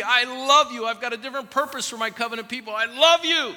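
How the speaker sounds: God calling his people back, tender but urgent. Acted. Sermon voicing God speaking to Israel.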